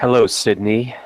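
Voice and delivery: menacing phone killer voice; unhinged villain. Acted. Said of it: "that sounded just like it".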